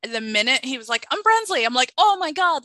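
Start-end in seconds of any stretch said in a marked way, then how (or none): 1.1-1.7 mock intro. Mimics Brimsley introducing himself. 2.0-2.6 excited gasp. Retold or imitated. Retells own excited reaction.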